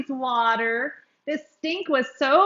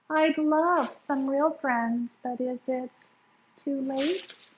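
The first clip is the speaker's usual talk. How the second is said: thinking aloud. Acted. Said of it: "Then thinking aloud, Doug said".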